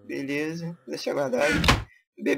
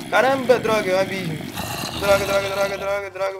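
loud, higher alarmed curses; startled cursing; 5 semitones higher, 5 dB louder than usual. Real, not acted. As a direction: yelp out at the sudden drop. Nearly falling into an abyss.

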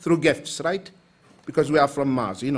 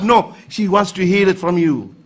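normal talking voice

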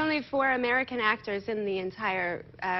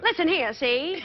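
forties gumshoe; 3 semitones higher than usual. Retold or imitated. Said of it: "sound like gumshoes from the forties".

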